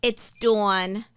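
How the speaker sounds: New York DAWN, rounded aw; New York accent. Real, not acted. Saying her own hard name, New York accent. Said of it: "not to have the accent".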